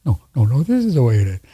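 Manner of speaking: mock know-it-all insistence; mildly imitating his old preachy radio self. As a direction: lightly lay down the law as a preachy host. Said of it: "rather than".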